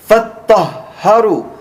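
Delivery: فَطَّهَّرُوا said fast with pressed doubled ṭ and h; emphatic Arabic. Shown as a demonstration. Teacher repeats the verse word for the class, emphatic. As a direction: lean on the shadda in فَطَّهَّرُوا. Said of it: "This word is in a form of emphasis".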